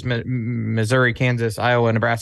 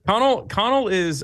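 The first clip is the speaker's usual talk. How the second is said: Connell said in a playful higher Irish accent; 8 semitones higher than usual. Shown as a demonstration. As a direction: give Connell an Irish lilt, laughing. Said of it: "you say it in an Irish accent".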